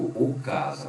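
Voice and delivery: "o casa" with the wrong masculine article o; deliberately wrong "o casa". Shown as a demonstration. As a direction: say it as the mistake: "o casa". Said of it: "eu não digo".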